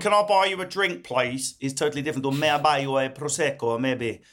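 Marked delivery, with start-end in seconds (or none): 0.0-1.6 light, higher mock Italian charmer accent. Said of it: "what a gift to sound like Giuseppe". 2.3-3.8 put-on light Italian accent rolling the r in prosecco; mock Italian accent. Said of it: "what a gift to sound like Giuseppe".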